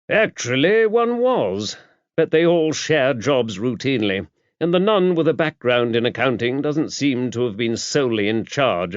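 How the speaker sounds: put-on an older churchman explaining with brisk authority; bishop.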